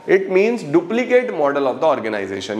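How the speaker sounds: very slow, word by word for notes; slow teacher dictation pace. Shown as a demonstration. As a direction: spell it out so students can write it down. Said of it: "ये ज़रूर exam में लिख के आना है".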